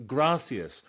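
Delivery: "gracias" with an open a and s sounds; loud, high "gracias" as GRAH-see-as, no lisp; pronunciation demo. Shown as a demonstration. Showing tourists another "gracias", open-a pronunciation with s. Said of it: "whichever way around it is".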